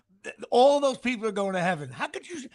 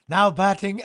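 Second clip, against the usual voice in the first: announcer voice; 4 semitones lower, 4 dB louder than usual. Retold or imitated. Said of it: "then he was like".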